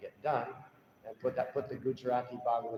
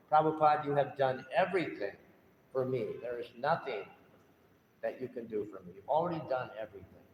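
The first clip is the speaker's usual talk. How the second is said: broken voice. Retold or imitated. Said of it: "stuttering and broken".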